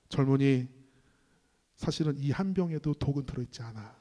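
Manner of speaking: low, soft, understated mock-devil voice; sneering devil. Devil reveals the trick to the young man, quietly sneering. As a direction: lightly imitate the devil's quiet scorn. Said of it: "마귀가 딱 비웃으면서 말합니다".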